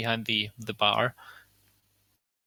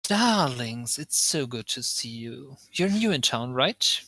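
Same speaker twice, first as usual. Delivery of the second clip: lightly voiced tiefling welcoming darlings; gushing tiefling host; slower than usual. Tiefling host welcomes newcomers in town, gushing. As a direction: greet new guests with drawn-out, lilting endearments.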